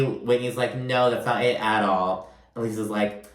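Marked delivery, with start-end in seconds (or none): 0.8-2.3 calm, understated denial. Retold or imitated. Whitney answers Lisa's accusation, retold very calmly. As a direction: mildly voice a composed reply. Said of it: "And very calmly".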